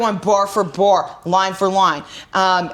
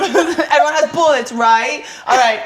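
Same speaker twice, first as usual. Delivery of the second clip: mock briefing; 3 semitones higher than usual. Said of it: "pretend crew meeting".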